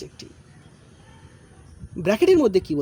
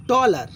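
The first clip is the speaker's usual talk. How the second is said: টলার slowly in two beats; টলার, each of its two syllables sounded out; split into syllables; 4 semitones higher, 6 dB louder, much slower than usual. Shown as a demonstration. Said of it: "দুবার উচ্চারণ করছি".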